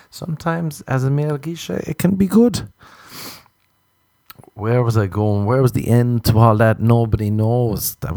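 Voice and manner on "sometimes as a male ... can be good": mock coy. Joke punchline, male geisha.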